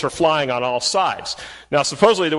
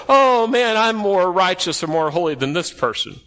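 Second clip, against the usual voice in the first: mock self-righteous voice, pitched higher on the opening; a hint of a preening saint; smug boast; 5 semitones higher, 3 dB louder than usual. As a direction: lampoon a holier-than-thou churchgoer, lightly.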